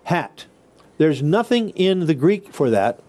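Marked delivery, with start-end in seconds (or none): 0.0-0.5 "hat" after a puff of air; spirantized h. Shown as a demonstration. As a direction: let the air out first on "hat". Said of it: "We have to say".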